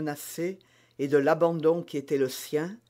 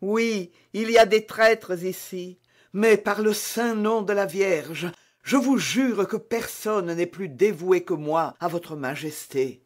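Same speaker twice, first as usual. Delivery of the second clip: sworn loyal maid; 3 semitones higher, 3 dB louder than usual. Acted. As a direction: swear by the Virgin, earnest. Bonacieux jure sa loyauté. (servante dévouée, ardente)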